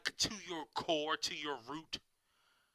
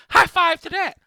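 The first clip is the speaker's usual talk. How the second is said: sarcastic cheer; 9 semitones higher, 13 dB louder than usual. Acted. Sarcastic cheer after mock brag.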